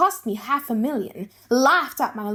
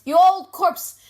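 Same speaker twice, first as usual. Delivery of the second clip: louder, higher spat-out insult; scornful outburst; 6 semitones higher, 5 dB louder, slower than usual. Acted. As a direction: fling the insult at him. Shylock cursing his own flesh.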